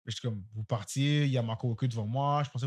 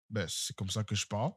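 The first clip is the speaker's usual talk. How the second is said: low-key, softer, rising at the end; understated retort; 3 semitones lower, 7 dB quieter than usual. Retold or imitated. Clerk defending himself to the customer, understated. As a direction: answer back quietly, as self-justification. His retort to accusation of shouting.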